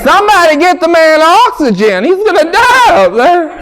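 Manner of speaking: high, loud gasping mock preacher; asthma preacher. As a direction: wheeze through the sermon as if out of air. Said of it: "I call it the asthma preachers".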